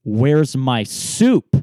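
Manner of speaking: slow, loud demanding question; mean customer confronting the server. Retold or imitated. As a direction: drag it out, loud and stern. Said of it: "not kidding, goes".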